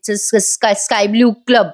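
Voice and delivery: stammering the club name in a panic; flustered stammer. Acted. Wife caught lying about the party, stammering in panic. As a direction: caught lying, stumble over the first sounds. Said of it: "अशी हडबडूनच बोलते ती".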